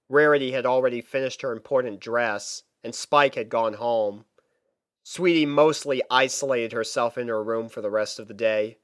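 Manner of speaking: ordinary delivery, nothing marked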